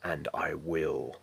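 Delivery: slow, measured heroic monologue with weighted pauses; resolute knight Arthur. Acted. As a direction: play an unyielding armored warrior, deliberate and solemn. Self-tape monologue as knight Arthur.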